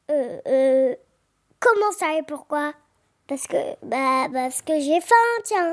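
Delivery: lightly voiced big bad wolf; a hint of a gruff wolf. Wolf answers the questioner.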